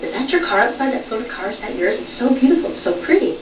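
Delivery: put-on high, bubbly teenage girl gushing. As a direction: coo over the car like a starstruck teen. Teenage counter girl gushing over car.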